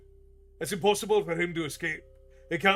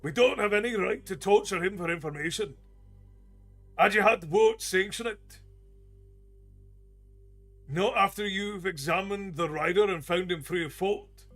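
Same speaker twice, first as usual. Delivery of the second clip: higher, louder angry argument; heated protest; 6 semitones higher, 6 dB louder than usual. Acted. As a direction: defend the prisoner with fury. Dwarf argues hotly with bald man.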